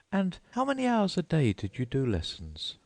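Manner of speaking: put-on high, hurried girl voice; hurried Alice. A narrator's reading. Alice hastily changing the subject, high voice. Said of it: "in a hurry to change the subject".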